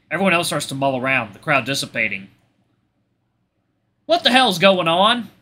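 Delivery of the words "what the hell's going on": loud, high, drawn-out question; shouted demand. Acted. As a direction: call out as you charge into the scene. Character charges in shouting.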